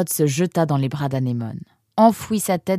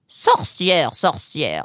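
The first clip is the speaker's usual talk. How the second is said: dismissive echo; much slower than usual. Acted. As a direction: echo the accusation, unimpressed. Fox echoes the boy's insult.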